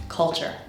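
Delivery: careful repeat of "Culture", uh in the first syllable; correct UH vowel. Shown as a demonstration. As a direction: model "Culture" with the vowel of cut. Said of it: "This word is pronounced culture".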